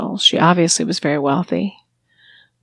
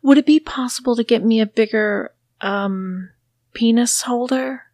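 nervously; 3 semitones higher than usual. Acted. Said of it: "I said nervously".

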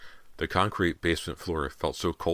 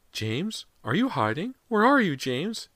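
high, anxious questioning, climbing higher; trembling mother; 4 dB louder, slower than usual. A narrator's reading. Mother calls to her hidden son, trembling and high. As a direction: plead upward as a frightened mother. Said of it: "Missus Fraser's voice trembled".

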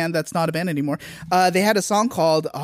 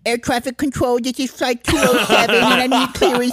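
pilot radio voice; 5 semitones higher than usual. Pretend. Plays commercial pilot for day.

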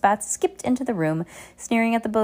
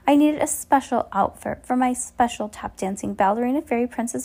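put-on whiny spoiled girl; 6 semitones higher than usual. A narrator's reading. Spoiled girl pleading with Olaf, high whine. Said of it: "Carmelita whined".

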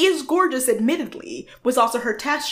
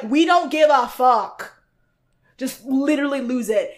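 exasperated; 4 semitones higher than usual. Retold or imitated. Judges urging a contestant to lose control, mock exasperated.

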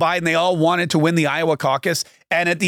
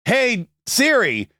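talking to Siri; 3 semitones higher, much slower than usual. Retold or imitated. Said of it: "I'll be like".

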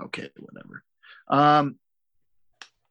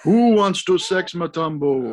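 mock announcer; 5 semitones higher, 6 dB louder, slower than usual. Movie quote said in mock voice.

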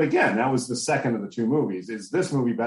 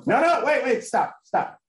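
urgent; 12 semitones higher, slower than usual. Real, not acted. Interrupting the other speaker loudly.

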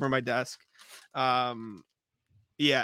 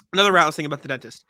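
louder, faster, talking over him; louder and faster repeat; 6 dB louder, faster than usual. Shown as a demonstration. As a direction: push it out quicker to be heard. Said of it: "repeats after being cut off".

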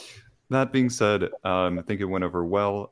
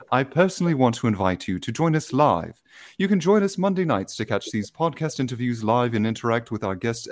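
a light put-on British accent; lightly posh British accent for the invitation. Host invites listeners to the live show in mock British accent. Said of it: "I'm gonna do this in my best British accent".

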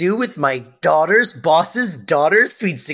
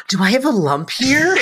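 mock alarmed mother; 9 semitones higher than usual. Retelling Sylvia's fake alarm.

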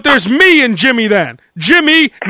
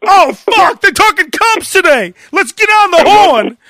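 each Hey called out higher, like eager radio callers; fired-up callers; 4 semitones higher than usual. Pretend. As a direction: rattle off caller intros, a bit higher. Rapid string of caller impressions.

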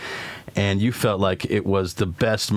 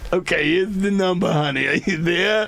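put-on much higher, sweet old grandma; 8 semitones higher than usual. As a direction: coo like a grandma on the phone. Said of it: "doing my own grandma voice".

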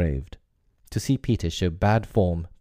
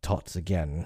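despairing; 6 dB quieter than usual. Acted. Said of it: "he cried despairingly".

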